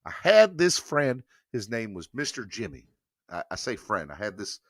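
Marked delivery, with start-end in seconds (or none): 0.1-2.9 Southern accent. Shown as a demonstration. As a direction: lean into your Southern accent, stretching the words. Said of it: "talk in my Southern accent here".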